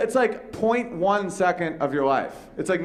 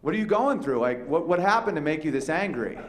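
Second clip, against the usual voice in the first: mock concern; 3 semitones higher than usual. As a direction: act like a caring therapist. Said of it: "I'm like".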